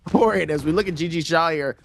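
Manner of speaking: flowing esports replay commentary; live play-by-play. Real, not acted. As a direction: narrate each move, popping on the best hits.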